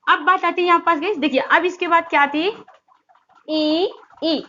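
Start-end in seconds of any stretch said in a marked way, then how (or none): 3.5-4.4 long drawn-out ई sounds for students; vowel ई demo. Shown as a demonstration. Teacher demonstrates ई to students, drawn out. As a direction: stretch out ई from the palate. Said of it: "देखिए ज-, आप जब ई".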